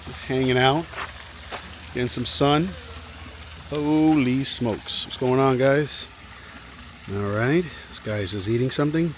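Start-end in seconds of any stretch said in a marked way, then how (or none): 3.7-5.1 drawn-out, slow amazed holy smokes; slow awed exclamation at the gators. Real, not acted. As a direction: stretch it out in awe.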